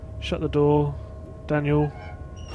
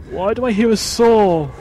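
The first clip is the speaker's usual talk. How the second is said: startled; 9 semitones higher, 8 dB louder than usual. Real, not acted. Scared by saw noise in horror game.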